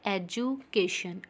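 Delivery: "एजुकेशन" in two chunks, एजु / केशन; split into syllables. Shown as a demonstration. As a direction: pause in the middle of "एजुकेशन", slowly. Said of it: "two times में बोला गया है". ("एजुकेशन" को दो हिस्सों में तोड़कर)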